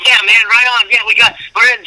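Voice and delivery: high-pitched retold celebration; excited. Comic reliving the duo's audition win, excited and high-pitched. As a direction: re-enact the thrill, pitch way up. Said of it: "We're all excited, going".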